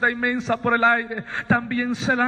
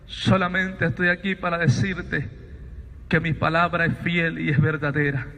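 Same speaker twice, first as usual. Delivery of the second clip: low, grave, measured pronouncement; voice from the light; 5 semitones lower than usual. Retold or imitated. Voice tells Sabino his days have ended, low and solemn. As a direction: deliver each phrase as a solemn verdict, pausing between. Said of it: "Aquella voz me dice".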